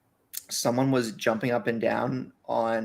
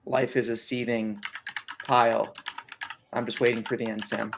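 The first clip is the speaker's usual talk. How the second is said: mock despair. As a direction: drag it out like a gloomy joke. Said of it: "No, I'm not".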